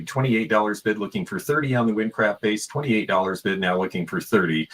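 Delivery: rapid repeating bid call; auctioneer. Acted. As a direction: chant the bids like an auctioneer. Live auction calling.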